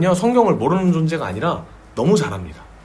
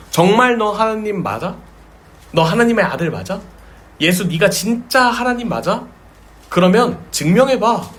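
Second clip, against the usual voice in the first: challenging taunt; 5 semitones higher than usual. Retold or imitated. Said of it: "라고 도전하는 거예요".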